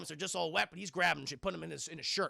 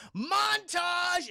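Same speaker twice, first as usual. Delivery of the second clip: loud high call; excited shout; hyped announcement; 11 semitones higher, 6 dB louder than usual. Real, not acted. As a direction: announce it like a trailer. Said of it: "announcing montage".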